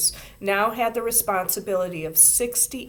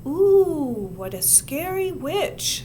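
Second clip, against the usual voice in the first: absent-minded mock fright; 8 semitones higher, 4 dB louder, slower than usual. A narrator's reading. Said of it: "rather absent-mindedly".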